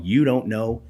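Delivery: slow, sneering beer snob voice; mocking beer nerd. Beer nerds scoffing at the new bar, slow mocking sneer. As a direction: lightly mimic a snooty beer nerd. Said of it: "beer nerds like myself coming and going".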